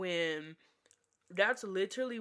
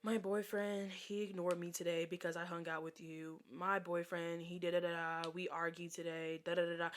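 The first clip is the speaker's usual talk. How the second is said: softer droning mock whine; mocking the friend; 7 dB quieter than usual. Mocking the friend's endless boyfriend complaints. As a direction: parrot her friend's complaints, bored. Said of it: "every time it was just".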